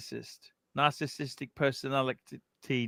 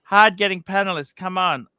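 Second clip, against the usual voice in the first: lightly whiny host voice, louder; higher, insistent mock plea; mock pleading; 6 semitones higher, 8 dB louder than usual. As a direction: nag a little in his voice. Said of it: "He goes".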